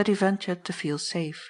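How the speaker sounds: ordinary delivery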